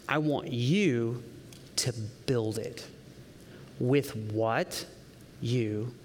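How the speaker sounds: low, slow, soft and weighty; solemn, hushed command. Acted. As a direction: let each phrase land separately, quietly. Voices the Lord's solemn request.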